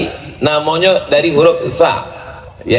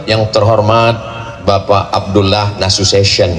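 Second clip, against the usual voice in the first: mock formal address; 7 semitones lower than usual. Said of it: "ada orang menyebut".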